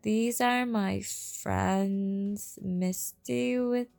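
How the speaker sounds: slow, sugary fake-friendly greeting; lightly voiced sweet mean girl; bright fake-sweet voice. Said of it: "She says it brightly".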